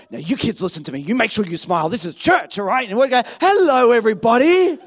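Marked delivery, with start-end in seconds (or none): 0.1-2.9 lower, stern mum warning. Retold or imitated. Mum instructs kids before church. 3.4-4.8 fake sweet hello. Family greets church sweetly.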